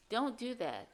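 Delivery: normal talking voice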